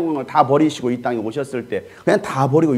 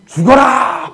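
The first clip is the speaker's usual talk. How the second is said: high, loud mock preacher's shout; 10 semitones higher, 9 dB louder, much slower than usual. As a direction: imitate a pulpit roar, pitched way up. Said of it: "막 이러고". (설교자의 호통을 흉내 낸 높고 큰 외침)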